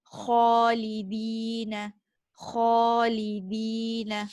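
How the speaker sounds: "khalidina" slow with a rasping Kha; grinding Kha. Shown as a demonstration. Teacher modelling the upper throat Kha. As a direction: scrape the Kha in "khalidina" slowly. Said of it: "sharp grinding sound".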